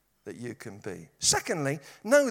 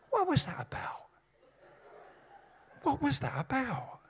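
high-pitched, puzzled comic aside; baffled aside; 11 semitones higher than usual. Acted. Preacher puzzling aloud over Popeye's love life, baffled. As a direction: squeak out the baffled question.

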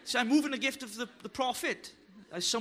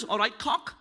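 Black Country greeting; 3 semitones lower than usual. Retold or imitated. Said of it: "That's what they used to call".

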